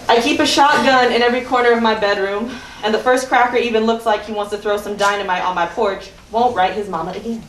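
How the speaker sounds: emphatic reading of a quote; quotation read aloud. Acted. Poet quoting Fannie Lou Hamer to open a poem, emphatic recitation. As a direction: deliver the quote firmly, as a performed epigraph.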